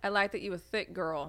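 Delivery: lightly voiced guy; imitating a guy. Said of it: "He said what?".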